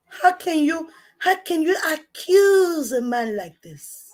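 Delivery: how could you, in high disbelief; outraged disbelief. Real, not acted. She confronts Daniel over the fraud, crying out high in disbelief.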